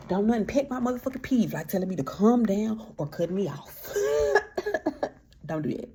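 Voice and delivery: loud, laughing through the complaint; laughing rant. Real, not acted. Venting to viewers about pet peeves, laughing. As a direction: laugh it out while ranting.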